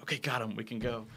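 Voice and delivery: low, soft, discreet murmur; retold quiet word. Retelling her signal to Mayhem that they can leave, soft and low. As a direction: imitate slipping out unnoticed. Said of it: "just quietly get my".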